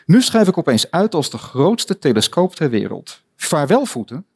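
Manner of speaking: Alice growing tall. Acted.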